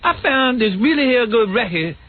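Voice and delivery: high put-on Black American accent; imitated Black American talk. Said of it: "he told like this".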